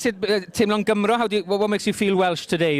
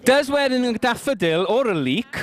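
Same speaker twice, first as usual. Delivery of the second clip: higher, slowed-down questioning lilt; playful opening question; 5 semitones higher than usual. Real, not acted. Host teasing the guests about daffodils, sing-song. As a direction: draw the question out, pitched up. Host first asks, then rephrases.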